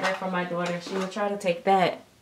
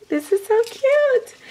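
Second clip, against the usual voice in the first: gushing. Real, not acted. Gushing over matching outfits.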